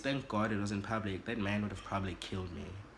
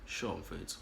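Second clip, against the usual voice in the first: softer, lower, playing it cool; 4 semitones lower, 5 dB quieter than usual. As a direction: drop the voice low so he won't notice. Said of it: "Now I'm lowering my voice".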